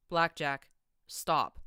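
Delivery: steady, firm but calm. A narrator's reading. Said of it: "P twenty-one said calmly".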